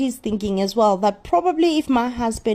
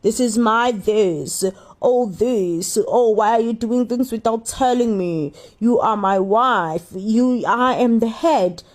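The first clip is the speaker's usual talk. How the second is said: mock complaining husband. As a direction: imitate a husband lording it over his wife. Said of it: "all he does is to just complain".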